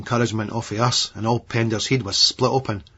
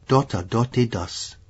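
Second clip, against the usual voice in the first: mock baby talk; slower than usual. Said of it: "in sort of baby talk".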